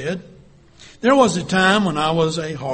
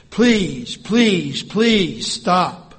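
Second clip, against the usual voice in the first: crying out; 3 semitones higher, 5 dB louder, much slower than usual. Acted. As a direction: beg desperately. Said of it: "I cried out to the master".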